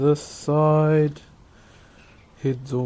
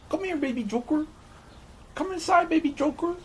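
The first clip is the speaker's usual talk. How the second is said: put-on very high, coaxing Cholo accent; 14 semitones higher, faster than usual. Calling the dog in a hammed-up high Cholo accent. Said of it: "Can you do a stereotypical Cholo accent?".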